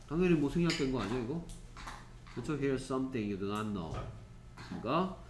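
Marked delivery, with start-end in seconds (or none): 2.6-3.9 very slow, even and careful; slow read-aloud. Shown as a demonstration. Teacher repeating the textbook line slowly for students. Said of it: "teacher reads again".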